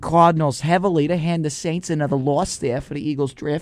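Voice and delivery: lightly put-on Boston accent, Bill Burr style; slipped-into Boston accent. Rooting against the Saints for the draft pick, mock Boston accent. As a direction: slip into a playful Boston accent. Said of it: "I don't know why I slipped into this accent here".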